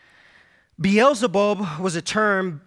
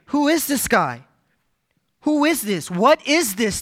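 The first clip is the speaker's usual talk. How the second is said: higher, astonished questions; amazed crowd; 4 semitones higher than usual. Retold or imitated. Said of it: "The, the people say".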